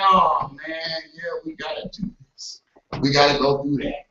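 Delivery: complaining groan. Retold or imitated. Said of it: "It's like".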